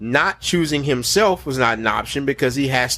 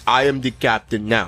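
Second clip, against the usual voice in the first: put-on Somali pirate accent; 3 semitones lower than usual. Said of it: "Captain Phillips?".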